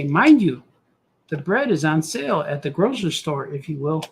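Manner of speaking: lightly voiced grandma, mind you punched; a hint of grandma nudging; grandma's phrasing. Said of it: "She would say it like that".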